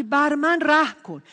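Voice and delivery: imitated beggar's loud cry; retold cry for mercy. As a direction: call out for mercy, slowly.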